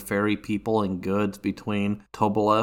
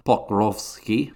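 slow, hammed-up fake Russian accent on Pokrovsky; slower than usual. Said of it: "without doing that fake Russian accent".

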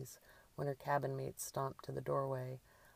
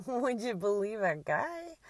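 loud, higher, through a burst of laughter; laughing; 8 semitones higher, 6 dB louder than usual. A narrator's reading. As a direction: say it as a too-loud laugh escapes. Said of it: "Drew's too loud laugh escaped".

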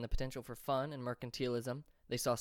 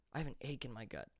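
put-on softer, half-swallowed words of a sick boy; barely audible; 7 dB quieter, faster than usual. A narrator's reading. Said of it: "his voice barely reaching the ears".

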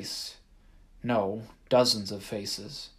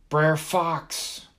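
loud worried call into the dark; urgent higher call; 6 semitones higher, 5 dB louder than usual. Acted. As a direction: shout his name, afraid he's gone. Calling out in the dark.

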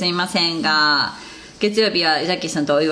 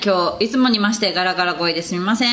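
hoarse, raspy speaking voice; rough, husky gravelly voice; faster than usual. Real, not acted.

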